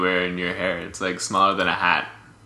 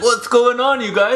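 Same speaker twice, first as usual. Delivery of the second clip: squeaky dwarf voice; 13 semitones higher, 4 dB louder than usual. Acted. Dwarves voiced in a comic bit.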